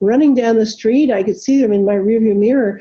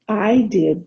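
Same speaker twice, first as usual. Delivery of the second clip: smiling. Retold or imitated. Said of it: "Ben said with a smile".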